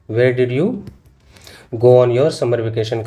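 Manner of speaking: slow reading with the answer filled in; slow, careful classroom reading. Shown as a demonstration. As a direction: read the corrected sentence slowly. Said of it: "यहाँ पे did आएगा".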